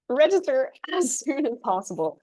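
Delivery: laughing through the words. Real, not acted. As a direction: chuckle while you say it. Repeating the advice with a laugh.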